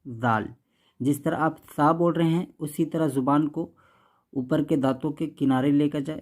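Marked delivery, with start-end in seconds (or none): 0.1-0.5 زال with the tongue tip at the upper teeth, lower and softer; soft dh sound. Shown as a demonstration. Teacher demonstrates the Arabic dhal. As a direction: say زال like English th in this. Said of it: "بلکہ بولیں گے زال".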